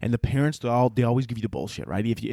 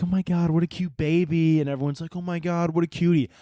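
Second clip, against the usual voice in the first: higher-pitched mock gushing; gushing onlookers; 4 semitones higher than usual. Passengers admiring a baby on board, mock gushing. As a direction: coo over it in mockery.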